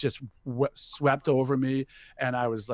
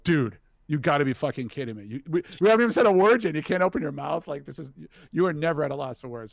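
frantic urging; 3 semitones higher, 5 dB louder, faster than usual. Retold or imitated. Urging his cofounder to speak.

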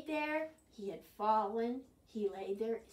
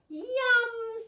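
high, loud delight in food; relishing; 12 semitones higher, 10 dB louder than usual. Acted. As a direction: savour it with big relish. Beaver relishes the sticks.

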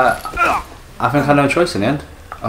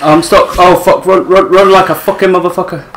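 yelling while running away; 4 semitones higher, 5 dB louder than usual. Real, not acted. Fleeing creature, yelling.

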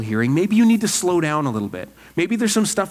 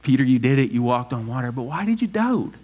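gentle smile in the voice, lifting on the question; fond, lightly puzzled reproach; Jesus. Acted. Preacher imagining Jesus after rescuing Peter, smiling kindly. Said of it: "imagine a smile on his face".

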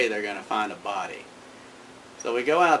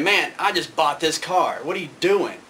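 higher, mock angry yell; 5 semitones higher, 3 dB louder than usual. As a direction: yell about the new car. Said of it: "So Dizzle's yelling".

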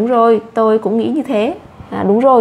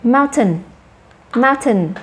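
"Mountain" with the first syllable stressed, falling after. Shown as a demonstration. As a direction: model "Mountain" clearly, weight on MOUN. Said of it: "Các em nhấn âm đầu".

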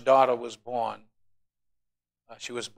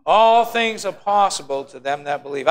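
leading the crowd, loud and steady; loud congregational recitation; 2 semitones higher, 7 dB louder than usual. Real, not acted. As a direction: call it out for everyone to repeat. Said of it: "Come on, say it with me".

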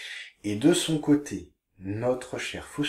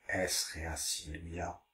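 repeated more softly, a bit slower; softer repeat; 5 semitones lower, 9 dB quieter, slower than usual. Shown as a demonstration. Teacher repeats the Latin softly for pupils. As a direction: echo it back quietly. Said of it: "Je vous lis les phrases".

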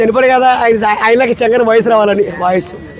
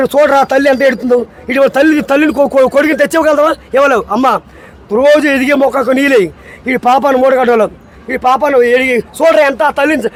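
dramatic hero rebuke, lightly voiced; Chiranjeevi dialogue; faster than usual. Guest performs the Indra rebuke scene for the show, dramatic. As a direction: scold like a righteous film hero. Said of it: "megastar Chiranjeevi".

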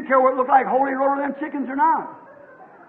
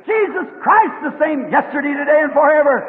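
raised, preached cry of a mother eagle; mock eagle scream; 2 semitones higher, 3 dB louder than usual. Mother eagle screaming to her young, raised preaching cry. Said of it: "She screamed".

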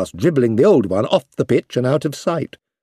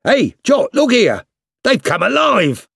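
higher, louder, gleeful teasing call; teasing soldier; 10 semitones higher, 4 dB louder than usual. Acted. Soldiers teasing Jock with jumping rats, gleeful and loud. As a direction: egg the dog on with a laugh in it.

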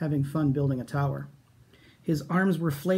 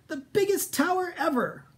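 mock shout; 13 semitones higher than usual. Minosaur calls out about his tower, very high. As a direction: brag to nobody. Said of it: "he shouted".

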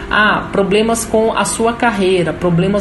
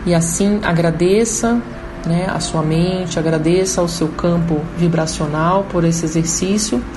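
guided meditation. Acted. Leads a guided chakra meditation.

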